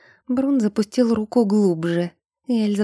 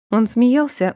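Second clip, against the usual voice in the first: ordinary delivery, nothing marked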